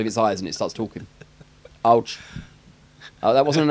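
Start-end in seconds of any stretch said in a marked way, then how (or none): 1.8-2.2 a hint of Austrian action-star voice; lightly accented action-hero yelp; Arnold Schwarzenegger. Poked talking head cries out, accidental action-star voice. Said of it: "that was more Arnold Schwarzenegger".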